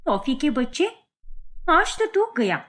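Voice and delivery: put-on young woman calling everyone over, then scolding the dog; shouting for everyone. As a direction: raise the alarm and summon the family. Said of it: "वो फौरन चिल्लाने लगती है".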